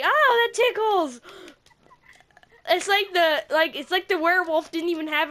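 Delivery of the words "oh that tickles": high, slow giggly cry; laughing while being tickled in the dream; tickled squeal. Retold or imitated. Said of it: "I was just like".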